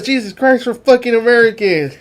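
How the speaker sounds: high, loud mock yell; screaming. Soldier yelling at the captain to stop firing, loud mock yell. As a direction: shout it like you're being shot at. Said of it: "both screaming at the captain".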